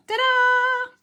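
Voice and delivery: high, loud triumphant ta-da. Real, not acted. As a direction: show it off proudly. Presenting the card.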